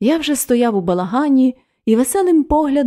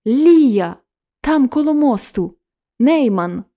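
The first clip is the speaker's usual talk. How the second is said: sudden urgent call, louder and higher; cry out; 4 semitones higher, 4 dB louder than usual. Acted. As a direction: blurt it out as she tears herself away. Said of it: "крикнула". (вигук дівчини, що вирвалась, голосніше)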